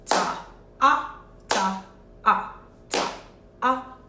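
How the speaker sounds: evenly spaced "ta, ah" pairs; half-note counting. Shown as a demonstration. Teacher demonstrates half notes, steady beat counting. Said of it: "So it will sound like this".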